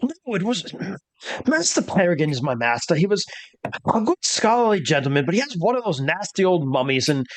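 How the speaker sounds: a hint of a nervous valet; fretting valet.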